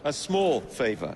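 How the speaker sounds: slow dry echo; slow sarcastic repeat. Acted. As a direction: savor the irony slowly. Sarcastic echo of "small favor.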